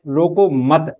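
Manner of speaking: रोको मत grouped together, stopping after मत; pause after मत. Shown as a demonstration. Teacher moving the punctuation mark, pause after मत. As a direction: say रोको मत as one unit and halt. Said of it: "मत के बाद में".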